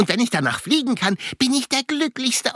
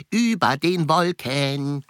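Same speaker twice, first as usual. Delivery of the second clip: dreamy; 5 semitones lower, slower than usual. Pretend. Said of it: "Dann sag ich jetzt noch was Schönes".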